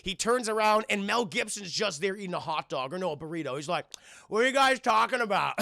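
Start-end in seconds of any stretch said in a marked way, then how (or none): 4.3-5.5 laughing. Retold or imitated. Riggs with burrito, laughing.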